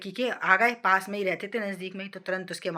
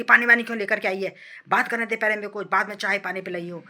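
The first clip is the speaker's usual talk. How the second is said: scolding mother-in-law; 2 semitones higher, 4 dB louder than usual. Retold or imitated.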